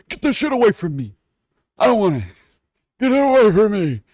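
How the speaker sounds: high shouted get away; shouting. Pretend. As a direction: yell it off in disgust. Mock disgusted shouting.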